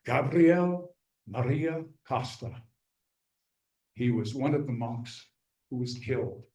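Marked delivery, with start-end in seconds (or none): 0.0-2.5 slow, deliberate naming, like a password; solemn reveal. Retold or imitated. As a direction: give the name slowly, with weight. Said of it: "I said the magic words".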